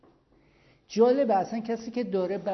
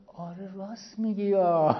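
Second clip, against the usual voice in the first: smiling, friendly. Retold or imitated. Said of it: "خیلی خندان و قشنگ".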